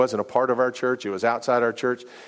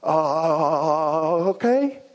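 panicked okay; 3 semitones higher, much slower than usual. Retold or imitated. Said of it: "I panicked".

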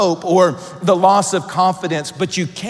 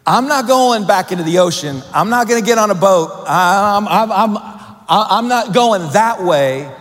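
louder, higher, stubborn refusal; defiant Jonah; 3 semitones higher, 4 dB louder than usual. Acted. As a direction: voice Jonah digging his heels in, loud. Preacher voicing defiant Jonah.

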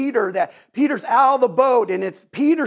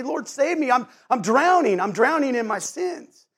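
higher-pitched plea without full volume; mild acted cry; 4 semitones higher than usual. Sinner calls out to Jesus for salvation, mild acted cry. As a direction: plead for rescue in a restrained cry. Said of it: "cry out to Jesus".

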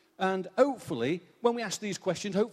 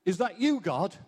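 startled question; 2 semitones higher than usual. Acted. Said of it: "drops his rod and says".

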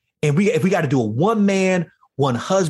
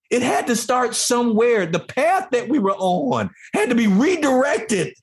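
usual speaking voice

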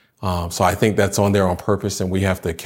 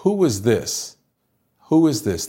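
amazed; 4 semitones higher than usual. Retold or imitated. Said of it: "they said among themselves".

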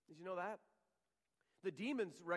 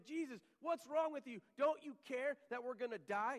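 higher, pleading cry of frightened disciples; mock panic; 6 semitones higher than usual. Preacher voices panicked disciples shouting at sleeping Jesus, higher and pleading. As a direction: act out the scared disciples' plea.

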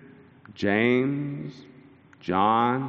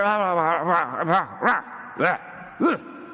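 grousing; 4 semitones higher than usual. Retold or imitated. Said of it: "they're grousing with each other".

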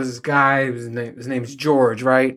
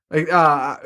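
ordinary delivery

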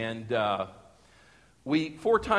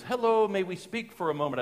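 put-on polite German-accented visitor, pitched up; higher-pitched German accent, politely asking; 5 semitones higher than usual. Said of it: "it was a German accent".

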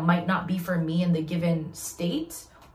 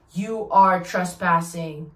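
loudspeaker announcement; much slower than usual. Retold or imitated. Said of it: "Just, like, blaring".

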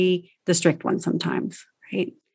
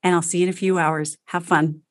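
calm reassurance. Shown as a demonstration. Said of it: "Instead of, like".

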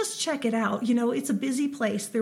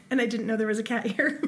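talking through laughter; words breaking into giggles; laughing; faster than usual. Real, not acted. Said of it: "that cat is hilarious".

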